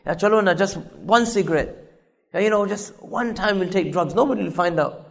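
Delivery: lightly voiced friend, soft and casual; peer-pressuring friend. Friend pushing someone to try one cigarette, softly coaxing. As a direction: coax quietly, as if it were nothing. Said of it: "They'll put pressure on us".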